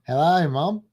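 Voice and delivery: lightly Australian hello; Australian accent. Shown as a demonstration. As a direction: give it an Australian twist. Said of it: "that's my Australian".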